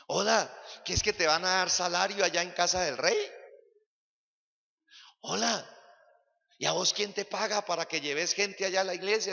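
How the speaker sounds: a hint of a sly, mocking tempter; preacher voicing Satan's whisper to a believer; tempting little voice. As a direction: needle the believer lightly. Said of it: "esa vocecita que dice".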